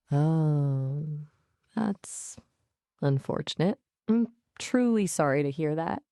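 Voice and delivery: mild, put-on sadness; halting, understated sympathy. Shown as a demonstration. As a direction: act gently sorry, with pauses.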